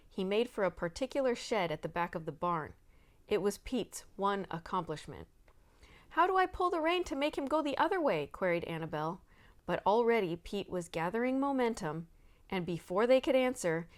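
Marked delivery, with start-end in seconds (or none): 6.1-8.3 much higher rushed alarm. A narrator's reading. Rider on a runaway horse, alarmed. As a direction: panic rising in the question.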